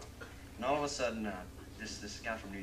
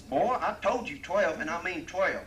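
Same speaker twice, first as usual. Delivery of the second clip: louder, higher, slow insistent cowboy; stubborn cowboy; 8 semitones higher, 12 dB louder, slower than usual. Acted. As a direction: lay down the law, word by word.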